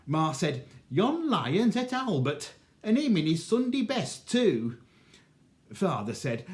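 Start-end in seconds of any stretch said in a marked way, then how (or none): 0.9-4.8 higher, louder aggrieved wail, Yon lion's et Albert; mother's lament. Acted. Mother tells the manager her loss, higher louder wail.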